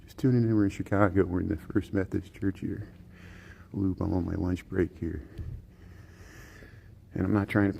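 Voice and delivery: hushed golf-announcer murmur; golf commentator. Real, not acted. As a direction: keep it low like at a golf green. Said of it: "I try to use my golf voice there".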